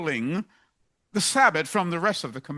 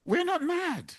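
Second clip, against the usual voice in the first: higher-pitched protest, like Shaul; raised protest; 11 semitones higher, 3 dB quieter than usual. Retold or imitated. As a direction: insist you're not mad, lifting the voice. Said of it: "we have to say to the Festuses".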